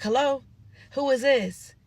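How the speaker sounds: mock cocky, dismissive retort; smart-ass mouth. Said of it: "he got a smart ass mouth".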